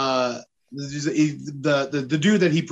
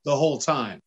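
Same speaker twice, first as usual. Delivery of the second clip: laughing refusal; 3 semitones higher than usual. Retold or imitated.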